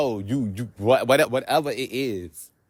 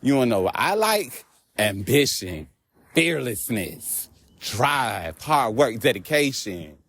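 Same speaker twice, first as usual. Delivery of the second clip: quoting a rapper; slower than usual. Retold or imitated. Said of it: "Remember when a rapper said".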